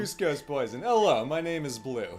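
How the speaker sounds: lightly voiced cartoon henchman; a hint of a character impression, played for laughs; Kronk. Shown as a demonstration. Performer shows host a Kronk voice on request, lightly voiced Kronk impression. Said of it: "Kronk voice".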